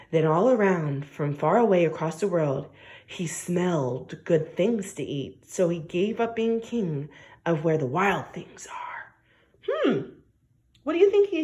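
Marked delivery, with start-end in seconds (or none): 2.2-9.1 whispered reading. Acted. Reading the story softly.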